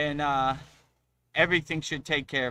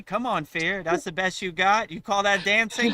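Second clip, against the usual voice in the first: louder cocky challenge; mocking taunt; 5 semitones higher, 4 dB louder than usual. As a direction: jeer at fear, a bit higher and louder. Taunting fear.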